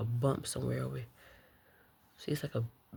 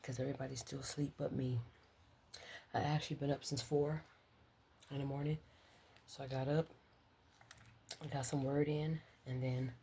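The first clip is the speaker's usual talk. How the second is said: library whisper; 5 dB quieter than usual. Real, not acted. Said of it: "Library voice".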